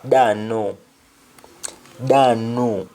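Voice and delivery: Jamaican patois "Da no", said plainly and flat; Jamaican reply. Shown as a demonstration. Teacher voicing Sheila's patois answer. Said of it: "Sheila simply says".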